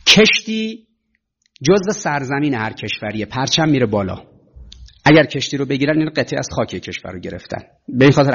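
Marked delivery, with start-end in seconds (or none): none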